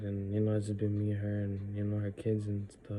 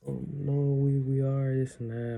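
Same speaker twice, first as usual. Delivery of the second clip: higher, louder mock defensive protest; mocking the relatives; 4 semitones higher, 4 dB louder than usual. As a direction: parody the family brushing it off. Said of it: "And they were like".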